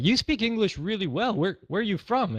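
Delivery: high, impressed American bartender voice; high-pitched mock bartender, impressed; bartender quote. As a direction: play the amazed bartender, pitched well up. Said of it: "And he's like".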